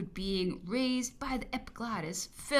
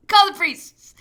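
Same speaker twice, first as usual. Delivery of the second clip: loud command; 11 semitones higher, 15 dB louder than usual. Acted. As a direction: bark the order out loud and high. Emperor orders priests summoned.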